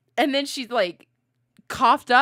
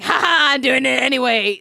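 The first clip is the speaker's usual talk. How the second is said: mock careless rescuer; 5 semitones higher, 9 dB louder, faster than usual.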